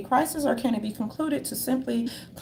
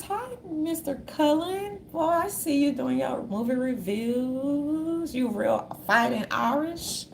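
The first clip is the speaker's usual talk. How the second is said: put-on voice; 2 semitones higher, slower than usual. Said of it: "greeting Mister Cullen in a voice".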